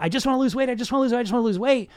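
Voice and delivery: a dieter droning the same wish over and over; mock dieter mantra. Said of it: "So you got".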